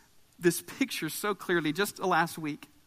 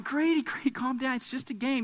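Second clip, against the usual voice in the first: calming; 5 semitones higher, 3 dB quieter than usual. Retold or imitated. Father calming his son, retold.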